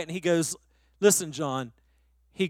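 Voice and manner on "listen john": low, soft, hushed phone voice; real quiet. Retold or imitated. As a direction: speak lower and softer, calm and confiding. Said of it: "he gets real quiet".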